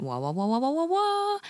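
wah wah wah sliding up high at the end; mock her mic check, rising to a squeak; imitated mic test. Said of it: "she went".

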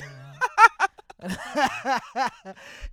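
high, loud laugh that breaks toward crying. Real, not acted. Podcaster cracking up at his own Deshaun joke, laughing. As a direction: crack up hard.

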